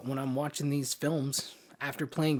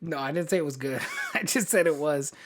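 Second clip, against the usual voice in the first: laughing. Real, not acted. Defending a joke movie pick.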